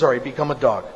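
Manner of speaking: a hint of a guru calmly granting it; unruffled guru. Guru answers the frightened mouse, low and matter-of-fact.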